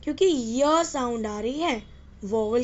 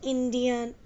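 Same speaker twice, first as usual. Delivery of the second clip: slow demo word; 4 dB quieter, much slower than usual. Shown as a demonstration. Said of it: "ई sound आ रही है यहाँ".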